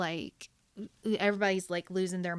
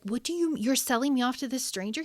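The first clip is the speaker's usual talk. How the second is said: high, indignant protest; a mock-appalled daughter; outraged disbelief; 5 semitones higher than usual. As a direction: daughter shocked her father is marrying her off. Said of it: "Bab was like".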